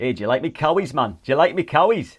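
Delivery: hammed-up Geordie-ish voice, a touch Scottish; mock northern accent. Host playfully tries the slang in a bad northern accent. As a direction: try on a Sunderland voice, badly. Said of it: "a bit of a Scottish twang going on".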